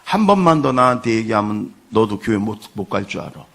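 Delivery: loud, glaring husband threat, easing off at the end; imitating a gang boss threatening his wife; mock menacing threat. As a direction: growl it like a thug warning his wife. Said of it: "눈을 부릅뜨고 막 잡아먹을 듯이".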